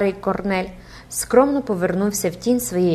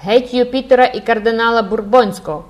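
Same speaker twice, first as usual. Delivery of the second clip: loud, higher protest chant; bawling schoolboys; 4 semitones higher, 6 dB louder than usual. A narrator's reading. Schoolboys heckle Jupiter and the cardinal, bawling. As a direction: bawl it like a rowdy gang. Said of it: "горлали Робен Пуспен і вся школярська братія".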